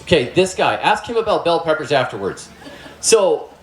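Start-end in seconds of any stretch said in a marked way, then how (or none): 3.0-3.5 laughing through the words, slowly. Real, not acted. Speaker teasing an audience member, laughing while talking. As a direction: chuckle your way back to the topic. Audience joke about bell peppers.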